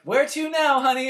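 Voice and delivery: put-on high, sweet elderly Southern driver; the taxi lady sweetly asking where to next; sweet old lady voice. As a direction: lightly sing it like a kind old cabbie.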